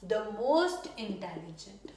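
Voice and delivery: slow, word-by-word dictation pace; slow model sentence. Shown as a demonstration. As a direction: spell it out slowly for the class. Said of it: "यहाँ पे the most लगेगा". (धीमे, साफ़ उदाहरण वाक्य)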